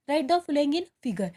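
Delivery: each word read out very slowly; slow dictation. Shown as a demonstration. Teacher reading the worksheet question to students, very slowly. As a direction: read the question slowly so the class can follow. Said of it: "teacher reads question aloud".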